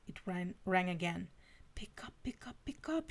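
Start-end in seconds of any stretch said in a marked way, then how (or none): 1.7-3.1 urgent breathless whisper, much softer; fearful whisper. A narrator's reading. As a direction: whisper it, scared he won't answer. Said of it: "she whispered more out of fear".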